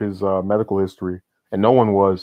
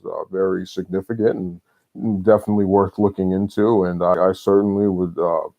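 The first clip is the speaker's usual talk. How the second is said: lightly voiced hesitant presidential cadence; a hint of a folksy pandering politician; Obama impression. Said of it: "I'm gonna do my best politician impression ... the way that, uh, Obama would".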